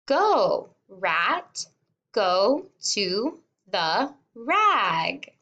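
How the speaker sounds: lively, slow read with a bright lift on Go; slowed, cheerful emphasis on the first Go; excited read-aloud. Shown as a demonstration. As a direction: make it sound happy and excited. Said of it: "So I read it like this".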